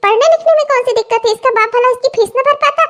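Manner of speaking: high-pitched, indignant tirade; scolding mother-in-law. Acted. Mother-in-law berating her uneducated daughter-in-law, high scolding.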